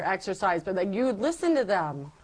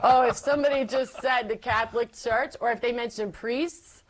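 laughing as she recalls it, pitched higher; 5 semitones higher than usual. Real, not acted. Recalling her old rants to the interviewer, laughing. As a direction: let the laugh spill through the words.

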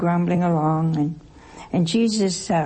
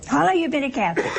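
quicker, higher repeat of How long have you been a Catholic; faster repeat; 6 semitones higher, much faster than usual. Shown as a demonstration. Preacher pressing the congregation, asking again faster. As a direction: push the same question faster. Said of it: "repeat, faster".

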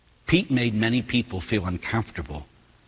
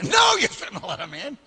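firm retold no; 11 semitones higher than usual. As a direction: bark a flat refusal through a laugh. Priest retells being told no.

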